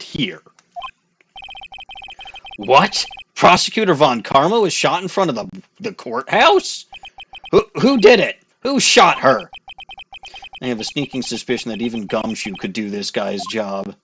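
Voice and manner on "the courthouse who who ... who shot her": shocked questions. Acted. Shocked at shooting news.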